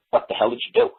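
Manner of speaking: high, incredulous question; baffled demand. Retold or imitated. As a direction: imitate a mystified officer wanting an explanation. Retold officer's baffled question.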